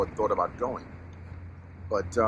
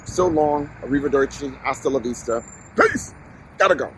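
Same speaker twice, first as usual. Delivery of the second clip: breezy goodbye; 5 semitones higher, 6 dB louder than usual. Retold or imitated. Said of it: "They may see you".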